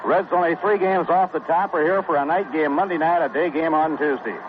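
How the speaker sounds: ordinary talk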